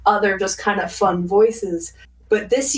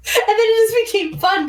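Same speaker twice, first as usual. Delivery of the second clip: high, airy bimbo voice; much higher, light breathy girl voice; 14 semitones higher than usual. Retold or imitated. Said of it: "the breathy bimbo voice".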